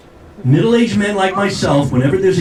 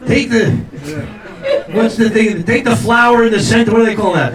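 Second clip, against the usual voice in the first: mock urgency; 4 semitones higher than usual. Acted husband urging wife to grab things.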